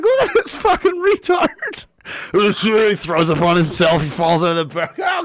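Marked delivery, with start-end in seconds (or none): 0.0-1.9 higher, gleeful gawking; mock onlooker. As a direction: gawk at the drunk. Onlooker mocking drunk.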